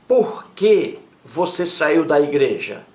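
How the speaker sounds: a teacher spelling out an example, unhurried; slow example reading. Shown as a demonstration. Teacher reads the example question slowly to the class. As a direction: read the question slowly, leaning on "Por que". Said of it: "Olha a pergunta aí".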